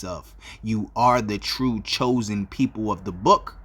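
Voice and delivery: slow, measured opening address; formal salutation. Real, not acted. Preacher greets the scattered nation of Israel, slow formal salutation. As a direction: deliver a solemn greeting in drawn-out phrases.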